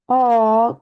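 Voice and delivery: mock disappointed aw; disappointed groan. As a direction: groan like a child who lost her fun. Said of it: "groans Peppa".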